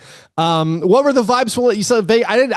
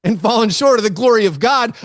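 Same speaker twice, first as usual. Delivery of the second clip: mock scripture reading; 5 semitones higher than usual. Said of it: "I'm reminded of, of Paul in Romans".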